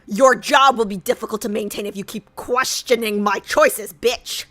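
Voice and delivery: angry threat. Pretend. Threatens strategist after her nagging.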